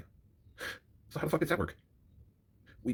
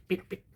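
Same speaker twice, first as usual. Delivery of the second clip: imitated car horn beep; 7 semitones higher, 5 dB quieter than usual. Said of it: "is what it sounds like".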